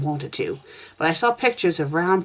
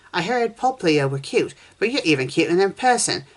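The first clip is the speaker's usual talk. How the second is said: squealed; 3 semitones higher than usual. Acted. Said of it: "McKaylee squealed".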